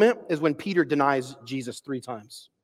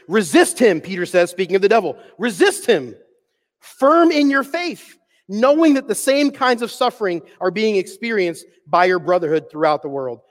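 preaching scripture. Acted. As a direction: read the verse with conviction. Reading scripture aloud.

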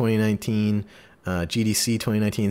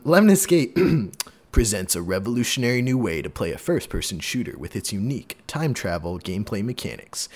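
measured game-blurb read with punched key words; promo read; 2 semitones lower than usual. Real, not acted. Host presenting an upcoming game to listeners, promotional read-out. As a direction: read it out like store-page copy. Reads out the game's description.

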